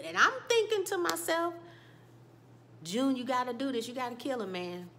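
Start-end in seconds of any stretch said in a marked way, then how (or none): 2.8-4.9 urging. Real, not acted. Urging a TV character.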